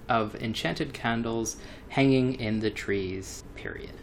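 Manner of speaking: reading aloud, naming semicolons and periods; dictating. Acted. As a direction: read it out like a dictation. Reads paragraph with punctuation aloud.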